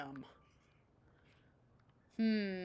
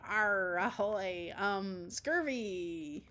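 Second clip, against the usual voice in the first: pirate talk; 3 dB louder, much slower than usual. Acted. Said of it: "talk like a pirate with me".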